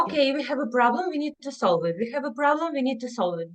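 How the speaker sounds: lightly acted parent, quick and repetitive; problem-solving parent. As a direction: rattle it off like a parent eager to fix things. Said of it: "parents very often want to, mm, solve situation".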